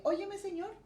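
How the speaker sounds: reclamo a Dios más agudo y rápido; oración fervorosa. Retold or imitated. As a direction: como quien le recuerda algo a Dios con urgencia. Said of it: "yo dije". (creyente nueva que reclama sanidad a Dios, aguda y rápida)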